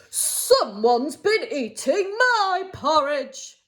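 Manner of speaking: a hint of a gruff growl, slowly; lightly voiced grumbling Father Bear; mild growl of Father Bear. Storyteller voicing Father Bear, a mild slow growl. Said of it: "growled Father Bear".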